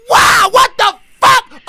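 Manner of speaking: very high, loud, drawn-out shriek; startled scream. Real, not acted. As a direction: shriek in shock after a gasp.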